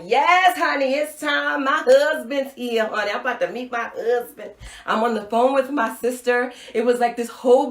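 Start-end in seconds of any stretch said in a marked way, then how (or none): 0.0-4.5 giddy excitement. Retold or imitated. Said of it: "I'm like".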